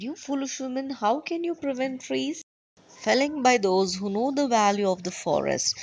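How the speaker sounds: mock-indignant official talking down; indignant retort.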